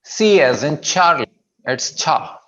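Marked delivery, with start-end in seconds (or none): 0.9-1.5 Charlie said slowly with a clear aspirated "chha" onset; clear CH sound. Shown as a demonstration. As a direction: open "Charlie" with a strong, airy CH. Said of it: "छा की आवाज आएगी". ("Charlie" में साफ़ छा की आवाज़)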